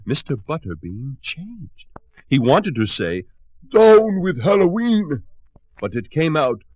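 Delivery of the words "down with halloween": high, loud pompous shout. Acted. Butterbean shouting before the spell hits, high loud shout. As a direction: bellow the slogan once more.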